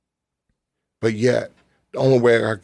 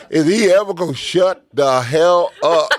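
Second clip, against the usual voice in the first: high, laughing mock grumble; half-laughing aside about a talker; laughing retold thought; 7 semitones higher, 4 dB louder than usual. Guest retelling his thought, laughing.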